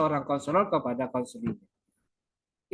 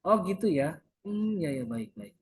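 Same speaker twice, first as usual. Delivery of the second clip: counselor's gentle interjection; 3 dB quieter than usual. Shown as a demonstration. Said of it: "baru kita sela dengan".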